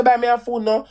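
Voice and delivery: demanding to ex. Retold or imitated. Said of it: "I say".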